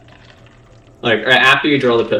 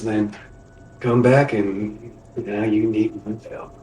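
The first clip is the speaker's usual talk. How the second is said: slow, lightly faked Cajun drawl; rough Cajun attempt with long pauses; shitty Cajun accent. Fletcher to an old acquaintance crawling back, in a slow Cajun accent. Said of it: "trying to do a shitty Cajun accent".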